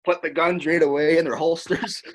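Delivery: playful taunt; mock gunslinger gesture. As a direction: ham up holstering the guns. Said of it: "I do the fucking".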